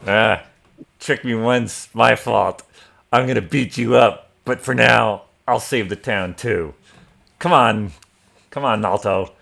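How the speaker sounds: lightly voiced gruff-tempered half ogre; loud, grudging phrases with a touch of character; Mastala. Game master as the tricked half ogre, loud grudging agreement. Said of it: "Mastala is the owner".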